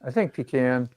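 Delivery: "pecan" said PEE-kan, long ee; "pecan" as PEE-kan, stress first. Shown as a demonstration. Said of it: "start this debate".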